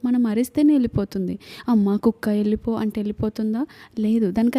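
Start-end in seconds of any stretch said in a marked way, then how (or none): 1.7-2.7 lightly acted polite coaxing; gently ask, imitating a meek plea; mock pleading. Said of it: "అలా బ్రతిమలాడుతూ ఉంటే". (బ్రతిమలాడుతున్నట్టు మెల్లగా నటిస్తూ)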